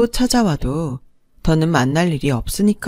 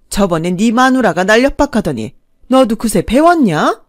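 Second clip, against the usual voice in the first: raised, defiant yell; yelling louder; 4 semitones higher, 5 dB louder than usual. Acted. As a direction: shout back at the son, daring him. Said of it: "더 크게 소리를 지르며". (아들에게 더 크게 소리 지르며 맞서는 목소리)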